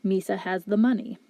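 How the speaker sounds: monotone robotic delivery. Shown as a demonstration. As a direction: speak like a flat robot. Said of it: "if we were to speak like a robot".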